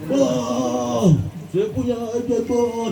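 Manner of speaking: high, mock-tearful plea; put-on crying. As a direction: wail a request as if forcing tears. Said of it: "Nangis-nangisin". (merengek pura-pura menangis)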